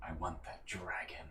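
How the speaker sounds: ghostly, barely audible whisper close to the ear. Narrating a ghost hovering uncomfortably close over your shoulder: ghost of Estor whisper. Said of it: "he just whispers to you".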